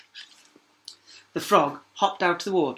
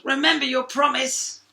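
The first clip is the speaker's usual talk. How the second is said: high, louder frog; 12 semitones higher, 7 dB louder than usual. A narrator's reading. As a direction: remind her pointedly. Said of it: "it called".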